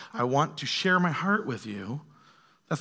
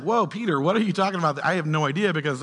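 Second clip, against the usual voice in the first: lightly acted bafflement, a little louder; mock-puzzled reader; mildly baffled; 2 semitones higher, 4 dB louder than usual. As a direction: react like a puzzled reader questioning the writer.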